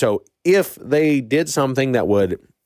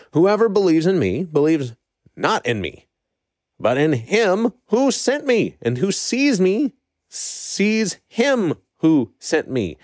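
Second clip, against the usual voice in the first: higher, slow and emphatic quote; impassioned proclamation; 6 semitones higher, slower than usual. Acted. Preacher re-reads Jesus crying out to the crowd, impassioned. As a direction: proclaim it with raised pitch and drawn-out key words. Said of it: "He was impassionate and loud about this".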